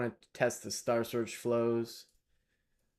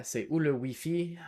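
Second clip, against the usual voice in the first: put-on lightly French-accented, a touch lifted; a hint of a French accent; 5 semitones higher than usual. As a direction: ask it the way a Parisian would, lightly. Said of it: "speaking like French from France today".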